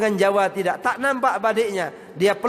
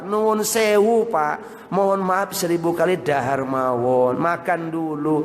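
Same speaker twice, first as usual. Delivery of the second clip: courteous greeting, slow then sinking lower; polite Javanese; 3 semitones lower, slower than usual. Acted. Javanese host excusing himself and offering food, very politely. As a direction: stretch the apology, then offer food humbly. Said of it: "Jawa kalau ngomong luar biasa santun".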